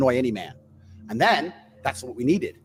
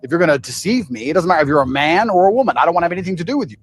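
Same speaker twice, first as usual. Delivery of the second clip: louder original; 3 semitones higher, 6 dB louder, faster than usual. Real, not acted.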